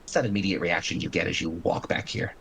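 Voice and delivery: measured, dramatic scene setting; game master narration. Acted.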